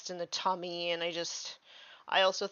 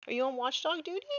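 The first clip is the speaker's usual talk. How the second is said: quick, high pet talk; talking to the dog; 6 semitones higher, faster than usual. Real, not acted. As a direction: tease the dog in a higher, faster voice. Asking the dog directly.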